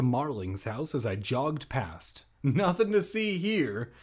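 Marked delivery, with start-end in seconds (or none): 2.4-3.9 lightly voiced dopey cop, higher; a hint of bumbling cop; Chief Wiggum voice. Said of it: "I Chief Wiggummed".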